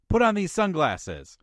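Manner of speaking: high, loud mock demand; insistent movie quarrel. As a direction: act out a man ordering his buddy around. Acting out the film's sunglasses argument.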